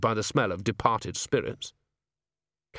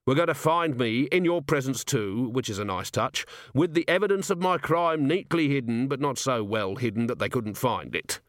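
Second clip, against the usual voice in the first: lightly voiced weary commander explaining; wry, exasperated watch commander; 3 semitones higher than usual. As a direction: spell it out with dry, lively impatience.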